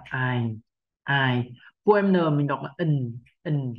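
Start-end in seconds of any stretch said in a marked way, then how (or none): 0.0-1.5 "ai" said with a falling huyền tone, like "ài"; unstressed "ai", sinking in pitch; low falling tone. Shown as a demonstration. Teacher showing an unstressed syllable, falling-tone "ai". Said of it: "chúng ta đọc thêm dấu huyền là ai".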